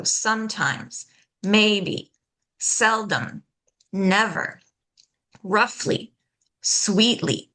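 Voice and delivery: SOME-times, MAY-be, SEL-dom, NEV-er, ROUGH-ly, SWEET-ly; "sometimes" through "sweetly", each front-stressed; first-syllable stress. Shown as a demonstration. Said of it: "stress that first syllable".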